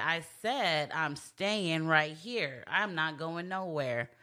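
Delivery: slow, low and firm, planting her feet; stubborn refusal. Retold or imitated. Wife refusing to leave, slow and firm. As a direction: drag it out, each word final.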